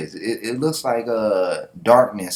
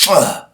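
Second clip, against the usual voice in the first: loud, higher groan of protest; frustrated grunt; 5 semitones higher, 7 dB louder than usual. Acted. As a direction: grunt in annoyed refusal. Boy refuses to flee.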